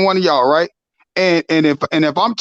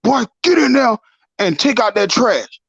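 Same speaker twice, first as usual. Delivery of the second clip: stern dad order; 4 semitones higher than usual. Retold or imitated. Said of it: "even if your dad tell you".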